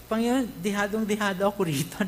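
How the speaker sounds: mock complaining Christian. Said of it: "Kasi usually".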